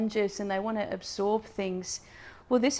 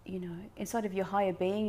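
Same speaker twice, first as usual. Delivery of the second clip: soft fast whisper; 6 dB quieter, faster than usual. Real, not acted. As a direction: drop to a whisper. Softly speaking of inner being.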